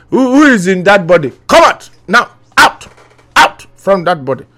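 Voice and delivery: hammed-up deliverance command; deliverance preacher. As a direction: cast the spirit out like a pastor. Bishop casting out a spirit.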